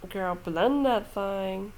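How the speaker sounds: slowed speech around a retainer; talking with a retainer in; wearing a retainer. Real, not acted. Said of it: "I sound a little weird, I have my retainer in".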